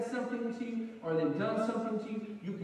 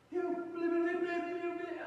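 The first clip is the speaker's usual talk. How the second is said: mock angry rant; 10 semitones higher, slower than usual. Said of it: "And he's like".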